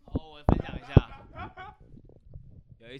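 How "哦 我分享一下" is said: much higher, slowed put-on voice; odd put-on voice. The speaker starts his story in an odd nervous put-on voice. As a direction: stretch it out in a funny new persona. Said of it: "那些怪腔怪调就出来".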